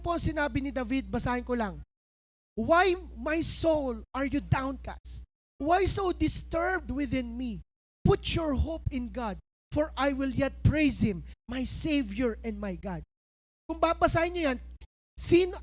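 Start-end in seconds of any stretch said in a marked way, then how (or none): 2.6-13.1 slow, solemn reading of the Psalm; scripture reading. Acted. Pastor reading the Psalm to the congregation, slow and solemn. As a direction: read each line slowly, like a prayer. Reads Psalm aloud slowly.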